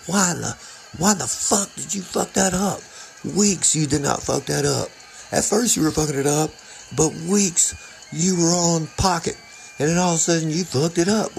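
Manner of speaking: high, fast mock tirade from a furious bandmate; imitating a bandmate's high-pitched rage; angry bandmate rant. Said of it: "to the point where it's like".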